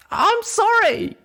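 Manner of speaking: very high, slow crying wail; sobbing apology. Acted. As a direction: sob it out.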